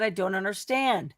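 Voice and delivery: slow, soft imitation of a muttered aside; under the breath. Relaying what he muttered in court, under the breath. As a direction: murmur it slowly as if under your breath. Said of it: "in that little under".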